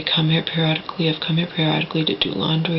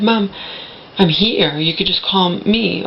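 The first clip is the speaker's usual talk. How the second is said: louder, insistent retold protest; retold exasperated retort; 4 dB louder than usual. Answering mother's complaint about the fall, exasperated retold retort. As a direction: push the words out, re-enacting an argument.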